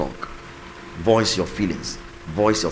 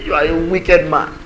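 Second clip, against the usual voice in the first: mock wailing wife; 7 semitones higher, 5 dB louder than usual. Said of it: "Starts beating his chest".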